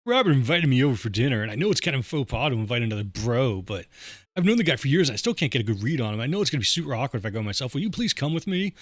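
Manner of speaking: put-on buddy asking a favor; trivia guy's voice. Jerk asks buddy along to dinner, trivia guy voice. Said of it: "He's got the same voice as the, the guy at the trivia".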